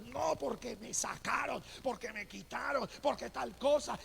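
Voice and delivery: resentful complaint. Retold or imitated. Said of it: "y se enojó este hombre".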